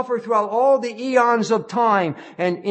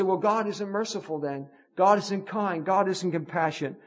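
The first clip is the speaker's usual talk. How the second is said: softer, voicing a doubter's complaint; doubting objector; 2 semitones lower, 6 dB quieter than usual. Preacher voicing a skeptic's complaint, softly. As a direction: mutter the objection someone might raise. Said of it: "And so some say".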